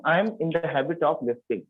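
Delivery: very slow, word by word; teacher dictating slowly; slow model sentence. Shown as a demonstration. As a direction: spell it out slowly for the class to repeat. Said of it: "कैसे बोलते हैं बताइए?".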